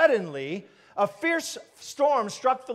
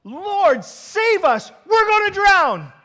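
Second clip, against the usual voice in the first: loud, high cry for rescue; terrified shouting; 9 semitones higher, 9 dB louder, much slower than usual. Acted. Disciples waking Jesus in the storm, terrified shouting. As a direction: shout it in desperate panic, drawing out the last words. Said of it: "They're shouting".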